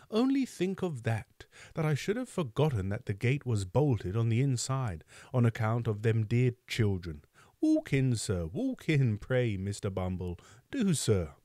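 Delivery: put-on an ingratiating old nurse, flustered and fussing; fawning Mrs Mann. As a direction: gush apologies at the important visitor.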